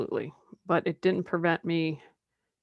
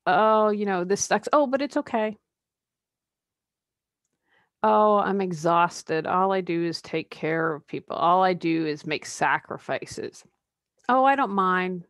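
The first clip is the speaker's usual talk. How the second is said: mock martyr complaining. Mocking a complaining martyr for listeners, hammed-up whine. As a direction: play the self-pitying martyr who then claims not to mind.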